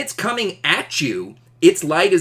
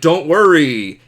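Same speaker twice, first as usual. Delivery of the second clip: plain Superman; 6 dB louder than usual. Pretend. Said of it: "if he said".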